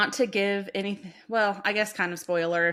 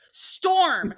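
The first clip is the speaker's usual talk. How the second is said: sharp, higher, louder call; a quick raised-voice summons; calling a name out; 8 semitones higher, 4 dB louder than usual. Retold or imitated. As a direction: imitate someone calling out to get attention. Partner calling out to get attention.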